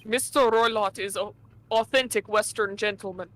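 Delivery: put-on thick Russian accent, dropped articles. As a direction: play a gruff Russian steward. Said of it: "Russian accent".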